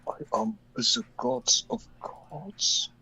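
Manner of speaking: slow drawn-out godlike boast; megalomaniac rant. Pretend. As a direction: savor each word like a tyrant. Gloating after a kill.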